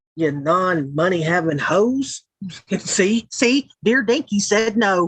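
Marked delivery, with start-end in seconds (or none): 0.2-2.2 spiteful, hateful southern accent, laid on, put-on. Offering to be hateful, the speaker switches into a hateful southern voice. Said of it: "hateful in my southern voice".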